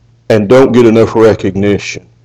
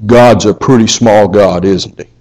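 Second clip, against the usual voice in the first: sarcastic; 2 semitones lower than usual. Shown as a demonstration. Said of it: "I'm saying it sarcastically".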